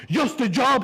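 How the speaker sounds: high, loud indignant echo; incredulous dad. Retold or imitated. Dad repeating his son's words, high and loud indignant. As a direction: fling the words back at him.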